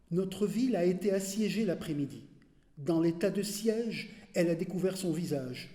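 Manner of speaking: firm, projected opening of a poem; poem recitation. Acted. Reader opening a poem on the besieged city, firm recitation. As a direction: state each phrase clearly and steadily. Opening take of the poem's refrain.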